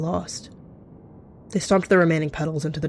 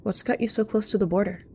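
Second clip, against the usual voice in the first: higher, friendly-sounding question; a touch of put-on cheer, pitched up; chipper; 4 semitones higher than usual. A narrator's reading. Cat questioning a stranger near the border, chipper. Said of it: "once again appearing chipper".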